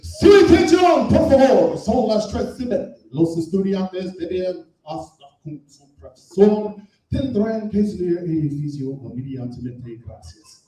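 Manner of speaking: hammed-up Spanish announcer. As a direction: boom it like a PA announcement. Raymond jumped up announcing.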